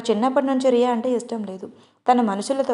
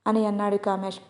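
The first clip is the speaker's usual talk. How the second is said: usual speaking voice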